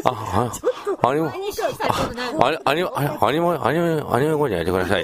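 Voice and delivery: lightly imitated awkward man, halting and repeating himself; hunched, hesitant mumbler. Host mimics a colleague asking a voice actor, haltingly. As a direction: keep restarting the request in a mild mock stammer. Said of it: "猫背でさ、こうやってね".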